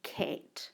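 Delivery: cat said softly, unvoiced, as a spelling example; sounded-out word. Shown as a demonstration. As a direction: breathe out cat gently. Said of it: "if I had the word".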